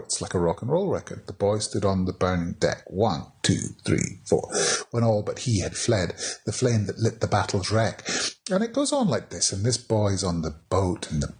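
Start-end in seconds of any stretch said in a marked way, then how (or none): 1.3-8.1 each line pounded in four beats; beat tapped out. Shown as a demonstration. Teacher showing the class the four-beat rhythm, beat stressed. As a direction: count the four beats out as you read. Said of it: "four by four".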